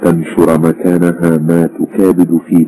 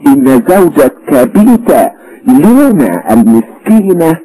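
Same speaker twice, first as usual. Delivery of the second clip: smooth persuasion; 3 dB louder than usual. A narrator's reading. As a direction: coax her daughter with practised charm. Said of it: "في لباقة وزلاقة".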